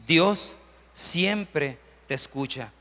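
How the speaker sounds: very slow, drawn-out declaration; slow, weighty restatement; slow emphatic. Shown as a demonstration. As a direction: lean on every word of Dios siempre te escucha. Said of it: "es que Dios siempre te escucha".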